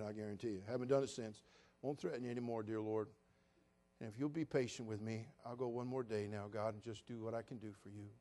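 soft, low, humbled plea; contrite prayer. Retold or imitated. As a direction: murmur an apology to God. Quiet contrite prayer retold.

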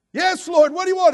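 high, loud and desperate; eager pleading. Acted. Dangling man begs the Lord for orders, high and loud. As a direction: ask the Lord anxiously what to do.

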